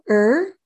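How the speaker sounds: "er" as the lone sound of r; isolated letter sound. Shown as a demonstration. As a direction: sound out "er" on its own, errr. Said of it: "You wanna say the sound".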